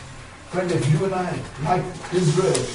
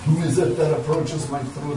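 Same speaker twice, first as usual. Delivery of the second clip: lightly voiced, lower divine voice; voice from throne; 5 semitones lower than usual. Voice from the great light challenging Curry, lightly solemn. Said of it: "the voice comes to him".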